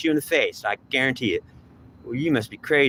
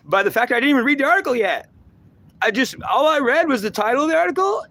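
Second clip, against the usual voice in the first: laughing; 13 semitones higher, 3 dB louder than usual. Real, not acted. Laughing at his own point.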